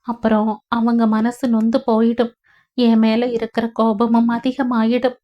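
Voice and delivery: lightly voiced young woman soothing; gentle consoling granddaughter. Vidya comforts her weeping grandmother, lightly voiced and gentle.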